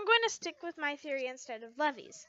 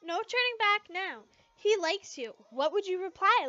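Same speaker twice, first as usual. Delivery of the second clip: teasing Levy; 6 semitones higher, 4 dB louder than usual. Acted. Levy voiced teasing Lucy.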